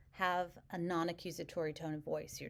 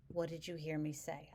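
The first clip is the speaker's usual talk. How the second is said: calm and even. Shown as a demonstration. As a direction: keep it evenly paced and calm. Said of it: "Calmly, evenly".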